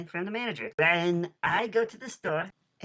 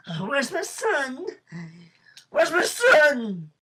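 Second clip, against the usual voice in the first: slow wailing yell, much higher and louder; 10 semitones higher, 8 dB louder, much slower than usual. Acted. Father yelling for his son in court, wailing. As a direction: cry out after the child taken away. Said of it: "I'm yelling".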